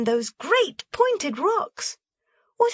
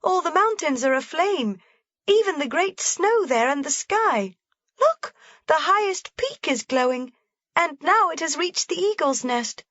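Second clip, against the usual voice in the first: put-on much higher, thrilled girl's shout; excited shouting; 13 semitones higher than usual. A narrator's reading. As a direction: cry out at the blazing sunset.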